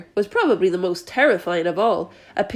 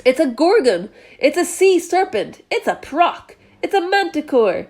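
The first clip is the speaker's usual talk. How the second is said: higher, frantic guessing; panicked cries; 5 semitones higher than usual. A narrator's reading. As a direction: blurt each name out in fright. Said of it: "they cried".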